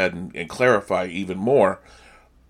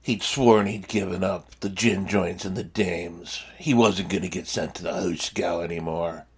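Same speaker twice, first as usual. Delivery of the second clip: 1930s voiceover guy; 4 dB quieter than usual. Retold or imitated. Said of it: "an awful imitation of me trying to be a nineteen thirties voiceover guy".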